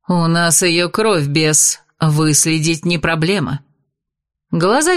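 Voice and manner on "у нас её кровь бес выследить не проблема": низкий, медленный голос ведьмы; строго отчитать беса; холодная ведьма. Acted. (ведьма холодно говорит с бесом)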